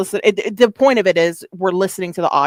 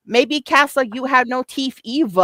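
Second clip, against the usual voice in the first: imitating her way of talking; 6 semitones higher than usual. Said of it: "that's how she talks".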